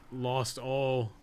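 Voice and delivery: ordinary talk, nothing marked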